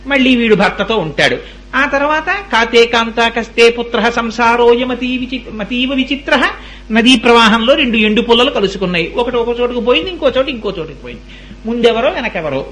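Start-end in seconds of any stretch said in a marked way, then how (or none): 2.5-6.5 slow, level shloka chant; Sanskrit verse recitation. Acted. Preacher quotes Sanskrit verse on family ties, slow recitation. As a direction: intone the shloka in measured syllables.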